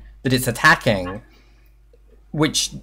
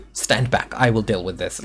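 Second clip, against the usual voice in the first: protective creature; 3 semitones lower, 5 dB quieter than usual. Acted. Creature voiced taking charge.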